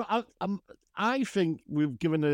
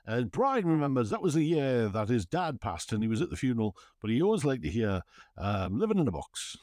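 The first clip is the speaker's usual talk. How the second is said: radio DJ voice. Shown as a demonstration. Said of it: "I'm practicing using my radio voice".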